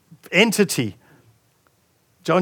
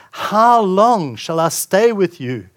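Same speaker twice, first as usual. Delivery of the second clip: strong, in-your-face. Acted. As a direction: challenge them firmly, with some restraint. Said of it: "That sounds quite strong. It's quite, like, in your face".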